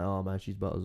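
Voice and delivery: "Butters" with the T dropped; slang glottal stop. Retold or imitated. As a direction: say "Butters" with a catch in the throat for the T. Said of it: "We never pronounce the T".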